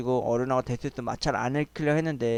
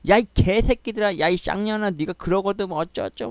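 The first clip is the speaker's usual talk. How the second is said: mock furious swearing, pitched up; retold cursing; 4 semitones higher than usual. Mother-in-law cursing after the departing sisters, mildly acted angry yell. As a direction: imitate a mother-in-law hurling abuse, at moderate volume. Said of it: "막 개 쌍욕을 다 하는 거야".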